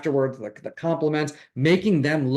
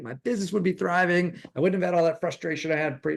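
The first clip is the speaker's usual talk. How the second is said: enthusiastic agent; 2 semitones higher than usual. Retold or imitated. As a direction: sell it with real excitement. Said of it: "But if you're like".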